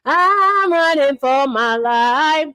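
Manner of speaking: slow, drawn-out mock plea; mock dramatic quote. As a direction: stretch each word like a hammed-up plea. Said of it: "They said".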